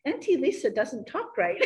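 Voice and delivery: playful imitation of a posh British two-year-old; mock posh British little girl complaining; posh British toddler. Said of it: "she has a very posh British accent".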